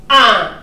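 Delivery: "Un" hit loud, dropping sharply; falling fourth tone. Shown as a demonstration. Teacher demonstrating the fourth tone, "Un" falling quickly. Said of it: "Quatrième ton, c'est descendre".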